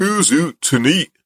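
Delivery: rough put-on Scottish accent. Saying an app's name, approximate scottish accent. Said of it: "Which is my approximation of a Scottish accent".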